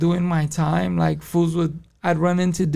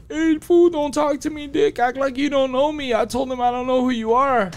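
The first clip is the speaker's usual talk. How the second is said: higher-pitched mock scolding; retold urgent warning; 6 semitones higher than usual. Co-defendant telling friend to act like strangers, urgent. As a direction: imitate someone warning a friend off.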